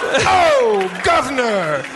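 put-on very high cockney British accent. A friend joins the British riff in a very high cockney accent. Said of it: "joins the British riff".

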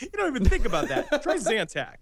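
chuckling pitchman; spoof ad pitchman. Acted. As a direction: laugh it off and plug the product. Spoof commercial's laughing sign-off.

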